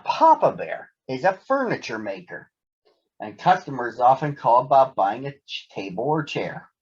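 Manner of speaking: put-on lively read-aloud voice for children; story narration. A narrator's reading. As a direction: tell it like a bedtime storybook. Reads Berenstain Bears story aloud.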